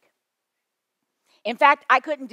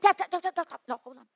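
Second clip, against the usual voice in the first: calling him back; 8 semitones higher, faster than usual. Retold or imitated. Calling after a man walking off.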